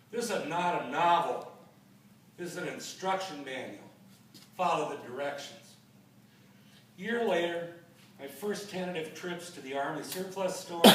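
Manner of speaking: measured poem recital, pausing after phrases; poetry reading. Acted. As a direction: read it out line by line as verse. Reads own poem aloud.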